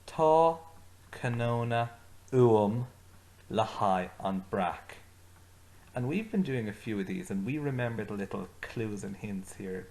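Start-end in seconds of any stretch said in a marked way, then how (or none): 0.1-5.0 each word said out slowly and clearly for learners to repeat; slow model phrase. Shown as a demonstration. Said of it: "So you say that with me".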